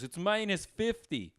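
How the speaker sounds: high, drawn-out mock heckle; imitated heckler. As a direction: call it out slowly like a pest in the crowd. Retelling a heckler calling out.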